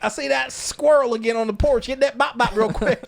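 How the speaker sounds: high, hammed-up Southern accent; excitable Southern squirrel hunter; mock Southern. Porch owner after a squirrel, mock Southern accent. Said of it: "it does sound very Southern too".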